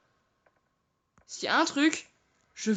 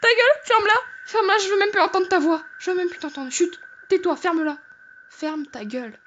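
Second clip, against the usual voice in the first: frightened yelling; 7 semitones higher than usual. Real, not acted. Terrified of the sound, yelling at it to stop. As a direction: shout at it to shut up, scared.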